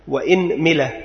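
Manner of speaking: إنملة with kasra on the hamza and kasra on the mim, inmila; vowel demo. Shown as a demonstration. Teacher listing the variant for students, careful inmila. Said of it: "ثانيا كسر الهمزة".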